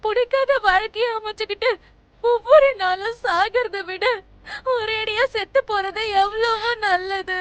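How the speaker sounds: tearful. Acted. Bride weeps against forced marriage.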